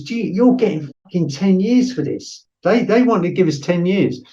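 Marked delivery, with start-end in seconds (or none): 0.0-2.5 higher, hammed-up interrogator threat; retold threat. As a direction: imitate the menacing officer, pitched up. Interrogator threatens ten years.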